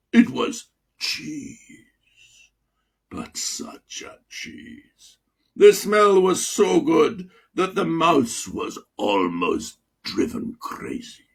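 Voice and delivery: slow, breathy whisper about the cheese; hushed and slow; hushed savouring. Acted. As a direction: whisper it like a delicious secret.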